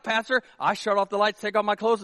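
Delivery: ordinary talk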